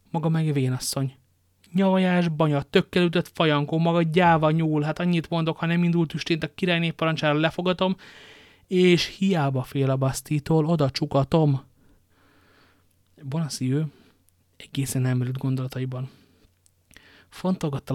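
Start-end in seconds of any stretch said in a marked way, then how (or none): 0.1-11.6 angry insults. Acted. Wife hurls insults and threats.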